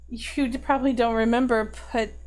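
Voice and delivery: mildly upset, guilt-laden pleading; tearful confession. Acted. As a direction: confess through held-back tears, with sighs. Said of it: "And she's just sobbing now".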